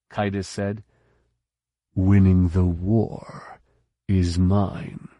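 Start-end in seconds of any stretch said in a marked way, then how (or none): 1.9-5.1 cold commanding colonel. A narrator's reading. Colonel voiced replying.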